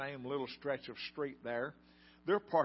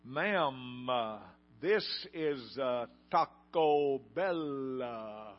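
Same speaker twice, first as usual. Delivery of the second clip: disgusted reply; much slower than usual. Retold or imitated. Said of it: "disgustingly looks up".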